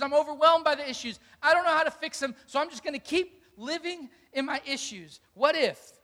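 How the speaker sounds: a worried believer voicing fears, lightly acted; anxious overwhelmed voice. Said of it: "The voice of fear says".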